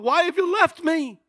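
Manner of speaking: high, loud anguished cry; preacher's anguished outcry. Retold or imitated. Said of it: "he cries out".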